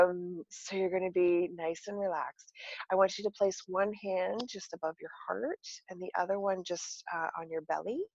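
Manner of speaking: soft, calm guided breathing; soothing relaxation guide, gently; therapist voice. Shown as a demonstration. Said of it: "I'm gonna put my therapist voice on now".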